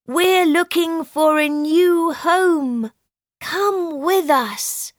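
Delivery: a friendly invitation, lifted high and bright; kindly. Acted. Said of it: "said the animals kindly".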